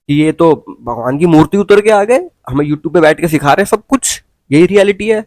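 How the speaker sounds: mock their godlike status, rising into a scoff; scornful sarcasm. Real, not acted. Vlogger scoffing at influencers posing as gods, scornful sarcasm.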